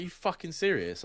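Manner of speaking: high, indignant disbelief; retelling how stunned he was, pitched high; incredulous outburst. Retold or imitated. To the friend group, mock-incredulous.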